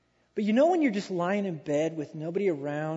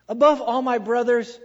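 louder, ringing preacher emphasis on Above; emphatic buildup; 3 semitones higher, 6 dB louder than usual. Shown as a demonstration. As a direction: proclaim it to the whole congregation. Repeated buildup.

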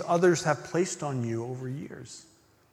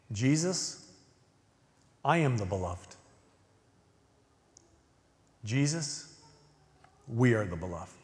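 prayerful; 4 dB quieter than usual. Shown as a demonstration. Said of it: "this is the beloved prayer".

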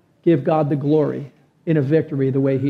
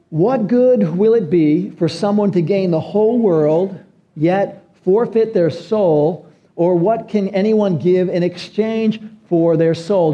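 slow, solemn reading of the verse; scripture reading; slower than usual. Shown as a demonstration. Pastor reading Matthew sixteen to the church, slow and solemn. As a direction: read the passage slowly and deliberately.

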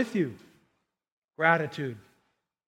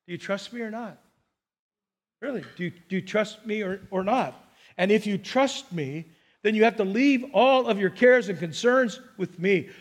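God speaking gently; 2 semitones lower than usual. Pretend. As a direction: ask it gently, like God testing trust. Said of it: "what he would say to you".

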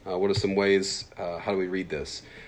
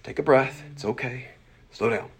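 calming self-reminder; 5 semitones higher than usual. Retold or imitated. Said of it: "kinda remind myself to".

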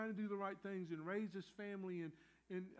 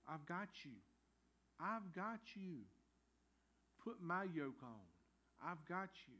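softer, unhurried assurance with pauses; gentle reassurance; 5 dB quieter than usual. Acted. God answering people who can't go on, gently reassuring. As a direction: reassure them softly, leaving space between phrases.

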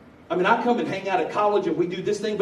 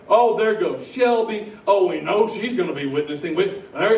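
mock dismissive attitude; 4 semitones higher, 9 dB louder than usual. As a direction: imitate everyone spotting her coming. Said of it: "that was the attitude".

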